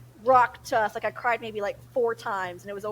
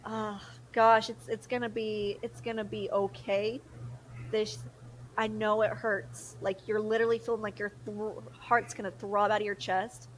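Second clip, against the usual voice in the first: gentle comfort. Retold or imitated. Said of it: "I'd give her a hug".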